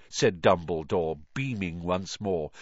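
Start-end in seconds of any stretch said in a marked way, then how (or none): none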